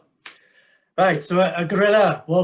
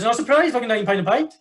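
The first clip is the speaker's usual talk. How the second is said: gorilla voice; 5 semitones higher than usual. Acted. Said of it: "the gorilla says".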